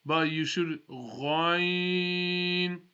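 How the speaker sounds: Ghain said slowly, full mouth and a throat gh; Arabic Ghain, full mouth. Shown as a demonstration. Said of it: "Full mouth".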